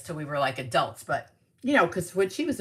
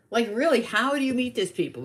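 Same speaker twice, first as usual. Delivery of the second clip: raised, emphatic baffled question; insistent retold disbelief; 7 semitones higher than usual. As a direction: press the question, moderately high. Repeats the question more earnestly.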